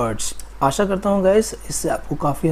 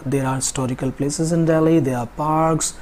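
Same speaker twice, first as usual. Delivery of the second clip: flowing list; much slower than usual. Shown as a demonstration. Teacher showing students how to say it together, in a flow. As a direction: run the sentences together as one connected list. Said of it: "flow से बोलना हो".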